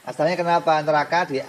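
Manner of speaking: ordinary talk, nothing marked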